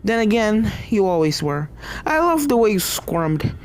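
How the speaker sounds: cruel, savoring gloat. Acted. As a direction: relish every cruel word.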